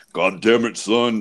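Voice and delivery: low, slow-burn rumble imitating an intimidating dad; imitated deep, gruff dad; deep-voiced dad. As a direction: do a big, intimidating father's deep voice. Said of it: "his voice is so fucking deep".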